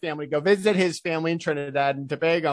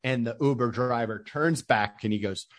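usual speaking voice

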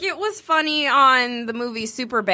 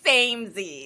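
imagined samesies delivery; 4 dB quieter than usual. Retold or imitated. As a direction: stretch it out as a mock catchphrase. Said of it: "I picture being like".

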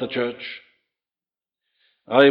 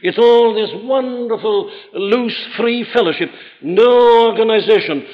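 hammed-up pious objector, getting higher and louder toward the end; mock the people who reject organization, building to a loud final no; mocking quote; 4 semitones higher, 3 dB louder than usual. Preacher mocks believers who reject church organization, rising sarcastic voice. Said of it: "people who think it's very spiritual to say".

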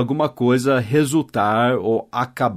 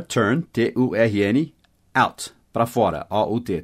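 slow spelling; 2 semitones lower than usual. Shown as a demonstration. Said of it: "spelling for learners".

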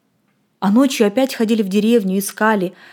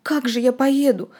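quiet crying; 3 semitones higher than usual. Acted. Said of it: "тихо плакал Володя".

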